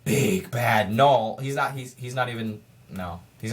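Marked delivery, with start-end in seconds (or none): 0.0-1.4 slow, low menacing quote; villain voice line. Retold or imitated. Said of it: "Nolan has two voice lines".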